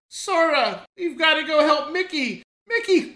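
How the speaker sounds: lightly acted call for help, climbing on the last name; imagined cartoon character. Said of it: "I can only imagine, like".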